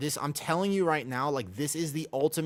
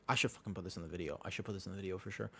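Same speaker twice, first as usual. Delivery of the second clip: muttered aside; 6 semitones lower, 9 dB quieter, much faster than usual. Real, not acted. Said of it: "aside to himself".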